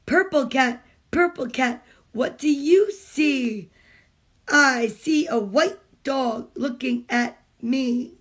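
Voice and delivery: slow, rhythmic picture-book reading; reading aloud to children. Acted. Mom reading a picture book to kids on a stream, storytime reading. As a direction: read it like storytime for little ones.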